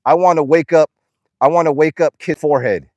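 loud, emphatic imitation of a faker; mocking quote, loudly put on; mock imposter voice. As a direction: mimic a phony text, punching each phrase. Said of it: "it didn't even sound like me".

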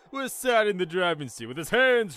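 animated storybook read; story narration. A narrator's reading. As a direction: narrate the tale with clear, measured emphasis.

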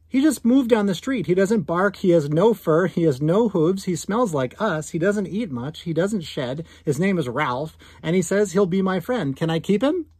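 put-on boy's excited plea ending in a hopeful rise. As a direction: bubble over like a kid who found a new pet. Boy excitedly pleads again.

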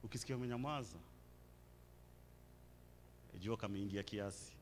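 very soft, low murmur; hushed aside. Real, not acted. Preacher to a congregation fallen silent, hushed aside. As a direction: drop right down into the silence.

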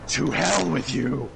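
slow, loud, high Scorpion yell; Scorpion shout. Retold or imitated. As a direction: bellow it like Scorpion. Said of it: "he says".

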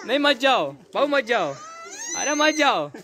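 high, mock-pleading whine with falling ends; playful pleading. Begging little Vyanu not to go, high playful pleading.

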